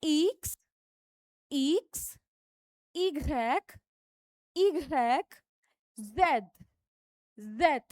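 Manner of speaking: French letters called out clearly; teacher repeating French letters; French letter names. Shown as a demonstration. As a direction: drill French letters for the class. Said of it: "फिर से repeat करेंगे".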